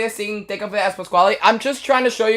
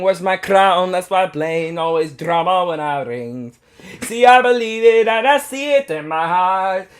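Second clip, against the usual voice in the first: put-on Italian accent. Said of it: "How's that Italian accent, chat?".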